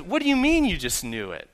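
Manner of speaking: high-pitched incredulous question; mock-bewildered parent; acted astonishment. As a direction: play a baffled dad, pitch jumping up. Acted dad reacting to daughter.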